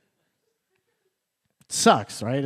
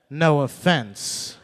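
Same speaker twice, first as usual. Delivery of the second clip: mocking her words; 4 dB louder, much slower than usual. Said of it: "until you said".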